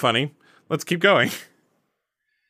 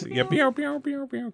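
mouth sound effect; 6 semitones higher, 7 dB quieter than usual. Pretend. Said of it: "Good Foley work".

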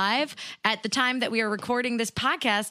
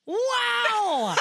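preening shrill peacock; 11 semitones higher than usual. Retold or imitated. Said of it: "It's like this".

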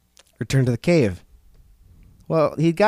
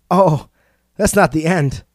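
louder defiant retort; 3 semitones higher, 4 dB louder than usual. Acted. The rock retorts to Coyote, louder and defiant. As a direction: throw it back at him. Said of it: "the rock retorted".

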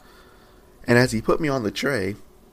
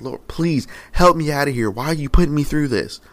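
pleading cry; 6 semitones higher, 4 dB louder than usual. Retold or imitated. Clay cup begging from the fire.

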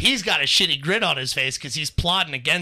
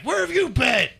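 high-pitched mock-mom question; exasperated mom; 10 semitones higher than usual. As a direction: imitate a worked-up mother, voice shooting up. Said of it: "Mom's like".

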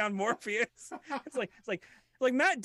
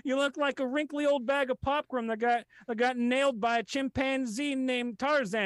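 Ricky Gervais impression; 5 semitones higher than usual. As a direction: gloat at the crowd. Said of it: "come back and say".

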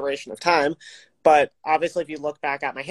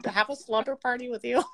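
mock pleading voice; 10 semitones higher, 3 dB quieter than usual. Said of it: "being like".

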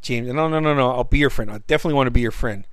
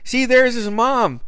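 taunting; 11 semitones higher, 5 dB louder than usual. Retold or imitated. Crowd taunts as James arrives.

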